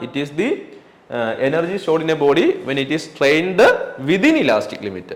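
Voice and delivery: very slow, word by word; slow dictation. Shown as a demonstration. Teacher dictating a definition to students, very slow. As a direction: spell out the definition for notes. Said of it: "dictating definition".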